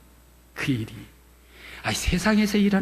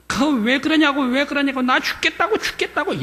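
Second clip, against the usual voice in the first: 높이 치솟은 다급한 외침; 맞으며 살려달라 울부짖듯; 비명 지르듯; 10 semitones higher than usual. Retold or imitated. 맞는 아내가 비명. (높은 목소리로 울부짖는 비명)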